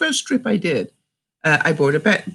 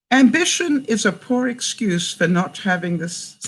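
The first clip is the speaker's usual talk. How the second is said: failing straight face; 2 semitones higher than usual. Real, not acted. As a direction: read it out, cracking up at the end. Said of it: "to keep a straight face".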